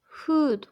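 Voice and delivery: フード said in English style as food; English word food. Shown as a demonstration. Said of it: "英語の".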